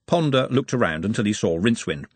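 usual speaking voice

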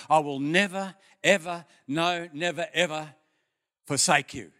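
reaffirming "I will never, ever" with weight; announcing to myself. Retold or imitated. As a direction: proclaim the promise to yourself. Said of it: "announcing that verse to myself".

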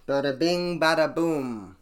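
loud, high, bouncy catchphrase; hyped sign-off. Real, not acted. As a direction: sign off with a flourish. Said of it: "sign-off catchphrase".

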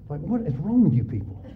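incredulous laugh through words. Real, not acted. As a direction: laugh at the absurdity.

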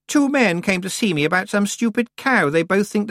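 put-on high, loud haughty girl; a bossy young witch pushing in; proud young witch. A narrator's reading. Anagrama complains.

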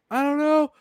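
very high, small mock-innocent answer; squeaky cartoon I-don't-know; mock suspect voice. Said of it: "She's like".

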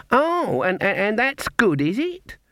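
put-on high, stammering old-lady delight; innocent surprise. A narrator's reading. Granny asks if her hand wins, innocently amazed. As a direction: stumble into the question, pitched right up.

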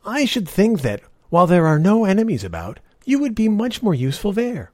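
put-on high, pushy old woman voice; old beggar woman. Old woman urges knight.

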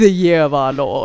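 mock formal herald line; a touch of an old herald; town crier. Mock formal deal declaration.

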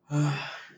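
heavy satisfied sigh after eating; imitating stepdad's full-belly sigh. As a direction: lean back and let out a heavy sigh. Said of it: "He'll go like this".

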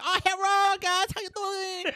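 high-pitched Asian accent impression. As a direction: greet friends in a hammed-up Asian accent. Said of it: "my Asian accent".

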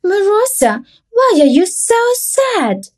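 a hint of a caring mommy bird; lightly voiced mother bird. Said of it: "Mommy Woodpecker ... asked".

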